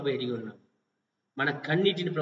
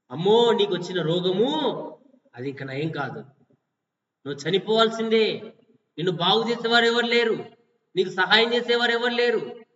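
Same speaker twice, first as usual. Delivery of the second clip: scornful gossiping people; 3 semitones higher than usual. Acted. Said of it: "అని మనుషులు".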